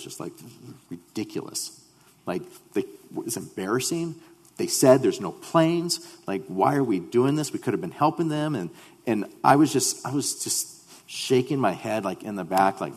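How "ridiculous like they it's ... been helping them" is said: frustrated. Retold or imitated. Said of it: "I was so frustrated".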